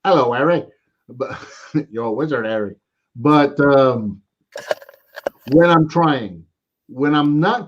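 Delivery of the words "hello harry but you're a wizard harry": bad British accent. Shown as a demonstration. Collector showing his failed British accent on a wizard line. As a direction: attempt a British accent, laughing midway. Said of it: "I can't do British accents either".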